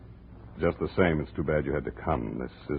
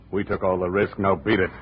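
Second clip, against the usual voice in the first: dismissive order; 4 semitones higher, 5 dB louder than usual. Acted. Jake orders Andrea out.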